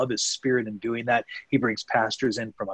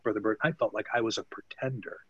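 hushed whisper, much softer; whispered confession; 8 dB quieter than usual. Retold or imitated. Convert confiding to the missionary that he felt false, whispered. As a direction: drop to a breathy secret, ashamed.

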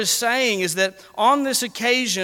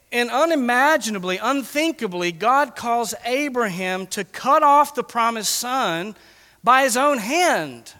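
intense preaching; 4 semitones higher, 3 dB louder than usual. Real, not acted. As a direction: build the horror, slowing on by his own hand. Preacher building to climax.

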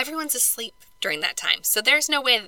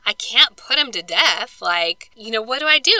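lightly voiced Pilate at a loss; 3 dB louder than usual. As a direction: imitate Pilate wondering what on earth to do. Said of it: "And Pilate is like".

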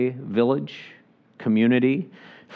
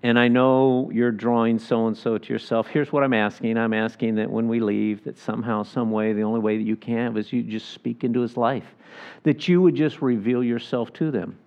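quiet prayer voice. Shown as a demonstration. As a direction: pray it gently, as if for a friend. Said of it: "I'll say".

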